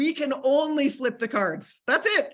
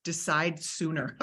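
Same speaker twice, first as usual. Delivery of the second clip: soft slogan; 6 semitones lower, 6 dB quieter than usual. Shown as a demonstration. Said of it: "We should make hats".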